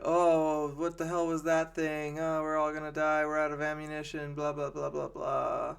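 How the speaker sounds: half-hearted mock panic, rattled off; mock freak out. Soldiers in the cave, mildly mock panicking. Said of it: "they have kind of a freak out moment".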